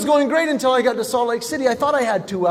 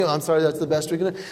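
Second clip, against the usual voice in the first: mock agent; 5 semitones lower, 4 dB quieter, much faster than usual. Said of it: "I said".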